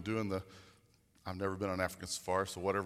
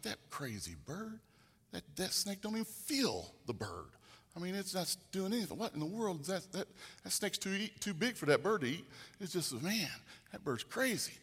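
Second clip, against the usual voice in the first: higher-pitched baffled hunter voice; puzzled hunters; 7 semitones higher than usual. Retold or imitated. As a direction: sound bewildered, watching the crazy bird.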